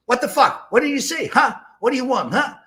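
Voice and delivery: high, loud threatening shouts; picking a fight, shouting; aggressive yelling. Retold or imitated. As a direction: bark threats across the table. Franz threatening guys at table.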